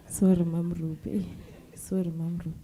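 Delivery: sorry said through a real laugh; laughing apology. Real, not acted. Student apologising to Mama Ruby, laughing. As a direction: giggle out the apology.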